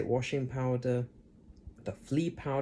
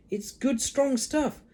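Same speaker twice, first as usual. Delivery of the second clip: George; 11 semitones higher, 4 dB louder, slower than usual. A narrator's reading. George reassuring.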